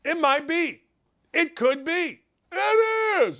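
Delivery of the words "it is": sudden much higher emphatic jump; emphatic peak. Real, not acted. Host settling the debate, high emphatic jump. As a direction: land it high as the payoff. Punchline after build-up.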